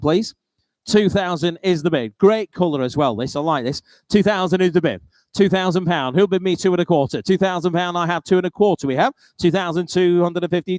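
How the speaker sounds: brisk auctioneer bid calling. Real, not acted. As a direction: rattle off the bids, keep the room moving.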